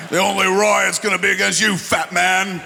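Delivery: laughing taunt. Retold or imitated. Mock British fan taunting.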